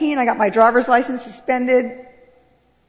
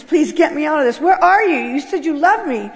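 retold tearful plea; 4 semitones higher than usual. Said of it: "ran out crying to Jesus".

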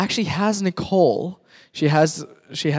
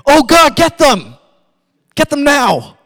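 vengeful demand; 10 semitones higher, 9 dB louder than usual. Retold or imitated. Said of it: "be like".

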